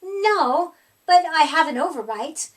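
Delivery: eager to please, a bit loud; nerdy polite monster. Acted. Herbert answers the child.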